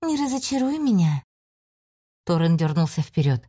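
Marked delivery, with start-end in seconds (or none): 0.0-1.2 demonic voice. Acted. Demon speaks from mirror.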